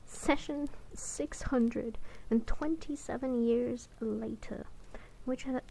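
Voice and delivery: measured audiobook-style reading; narrating a novel in first person; story narration. A narrator's reading. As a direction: read the fantasy tale aloud, evenly paced. Reads the novel aloud.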